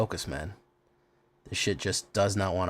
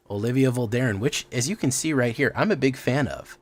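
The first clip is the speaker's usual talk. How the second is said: emphatic presenter voice with swooping pitch; show host intro. Acted. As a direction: welcome the viewers like a showman, drawing out key phrases.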